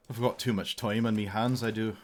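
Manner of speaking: light mock Irish brogue; a playful hint of Irish; Irish lilt, self-mocking; Irish accent. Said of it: "I'll do an Irish one".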